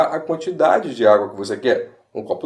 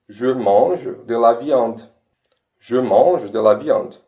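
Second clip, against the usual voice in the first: slow demo; 3 semitones lower, slower than usual. Shown as a demonstration. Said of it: "Eu como carne".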